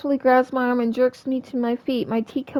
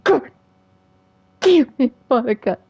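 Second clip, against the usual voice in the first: angry outburst; 5 dB louder than usual. Real, not acted. Still shaken by jump scare.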